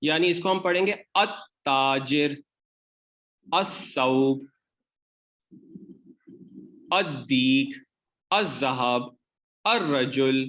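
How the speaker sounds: अत-ताजिर with lam assimilated, next letter doubled; Arabic solar words, no lam; solar letter drill. Shown as a demonstration. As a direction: read each with the l merged into a doubled consonant. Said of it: "लाम pronounce नहीं होता".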